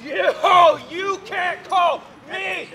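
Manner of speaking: furious stammering protest; splutter, too offended to finish; sputtering outrage. Acted. Insulted as town drunk, sputtering.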